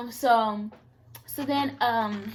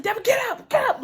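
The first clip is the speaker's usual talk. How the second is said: much higher urgent call to get up; 12 semitones higher, faster than usual. Retold or imitated. Sister calling to her fallen brother, high urgent call. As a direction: call across to him on the floor.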